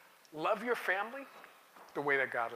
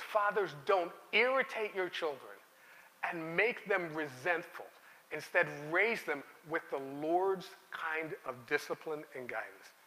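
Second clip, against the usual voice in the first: scripture reading, softer; 4 dB quieter than usual. Shown as a demonstration. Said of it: "Here's how the person reading it in that day would have understood it".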